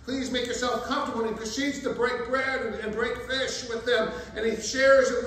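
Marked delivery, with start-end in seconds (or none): 0.1-1.2 welcoming host. Retold or imitated. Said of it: "he says".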